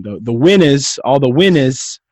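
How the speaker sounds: New Jersey accent, loud on winners; thick Jersey accent. Shown as a demonstration. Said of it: "I gotta get my, uh, my, my Jersey accent".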